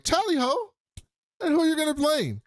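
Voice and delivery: very high, loud Tally ho cheer; hammed-up posh Brit, loud and bright; jolly British toff. Imitating Otto's cheery greeting.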